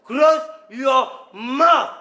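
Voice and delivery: barks a sharp order, then slows the second; stern command. Acted. Interrogator to the young man, a harsh order to shut up. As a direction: silence him like a harsh interrogator.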